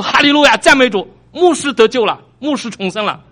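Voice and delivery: high, loud cry of praise, easing on the last line; retold jubilant shout. Local preacher leaps up to announce the pastor's rebirth, shouting. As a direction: call it out like an excited preacher in the pews. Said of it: "就跳起来喊".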